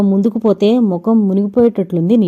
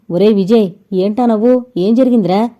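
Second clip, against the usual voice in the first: raised voice calling out to a friend; a moderate shout across the dark. Acted. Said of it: "గట్టిగా అరిచాడు".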